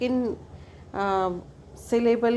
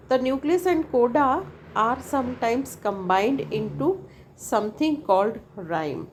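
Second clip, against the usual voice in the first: slow textbook reading; much slower than usual. Acted. Reads definition from the text.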